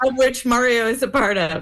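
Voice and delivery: words carried on a laugh. Real, not acted. Guest teasing the host on air while laughing. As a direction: let the laugh run through the line.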